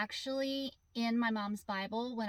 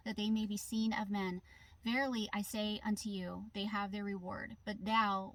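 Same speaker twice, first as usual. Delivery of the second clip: scripture reading. Acted. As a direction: read the old verse out reverently. Reads scripture aloud in car.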